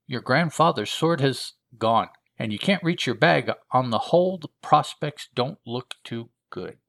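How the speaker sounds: rueful heroine talking to herself, starting high and easing down; captive heroine. Acted. Captured treasure hunter takes stock alone, rueful self-talk.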